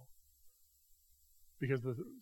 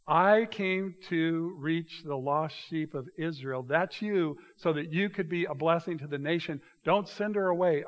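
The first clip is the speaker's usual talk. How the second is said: a lightly voiced Jesus, deliberate and raised; 4 semitones higher, 5 dB louder than usual. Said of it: "He says".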